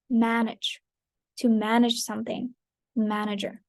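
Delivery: "Manage" and "manager" weighted on MAN; first-syllable stress. Shown as a demonstration. Teacher modelling words for repetition, "Manage, manager" stressed on the first syllable. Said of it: "stress is placed on the first syllable".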